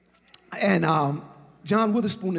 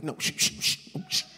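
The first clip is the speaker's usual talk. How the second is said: hushing; 3 semitones lower than usual. Retold or imitated. Mentor hushing a frustrated young comedian, whispered shh. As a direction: hush him like a calm mentor.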